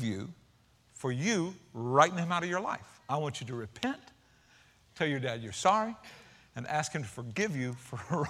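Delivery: a soft, steady divine command; gentle voice of the Lord. Retold or imitated. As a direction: lay it out quietly, like a patient father. The Lord speaks gently to Daryl.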